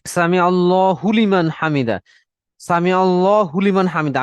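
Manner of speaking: "আল্লাহু লিমান" slurred into "আল্লা হুলিমান"; careless run-together. Shown as a demonstration. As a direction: demonstrate the mistake, "হু" glued onto "লিমান". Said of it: "একটু বেখেয়ালগত ভাবে করে ফেলেন এভাবে".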